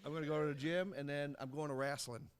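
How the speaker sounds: put-on Aussie accent drifting southern; wobbly Australian accent attempt; Australian accent slipping into Tennessee. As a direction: start Australian, slide into a Tennessee twang. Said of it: "apparently now you're from Tennessee".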